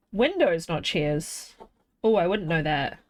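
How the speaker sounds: talking while chewing; words round a mouthful of crunch; crunching chips. Real, not acted. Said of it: "Sorry if I'm crunching".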